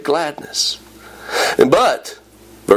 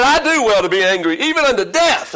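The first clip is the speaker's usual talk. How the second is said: defiant retort climbing high; angry prophet; 5 semitones higher than usual. Acted. Jonah answering God about the gourd, angrily defiant. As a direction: answer back in acted anger, pitch rising. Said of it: "He's angry".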